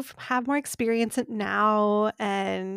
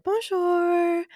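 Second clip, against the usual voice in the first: careful French Bonjour, a bit higher; attempted French; 8 semitones higher than usual. Greeting the bakery lady in attempted French. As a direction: try your best French accent on Bonjour. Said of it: "I tried my best to have a really good accent".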